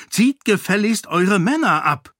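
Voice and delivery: angry command. A narrator's reading. Sarene demands the king withdraw his troops, imperious. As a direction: order him to pull back his men.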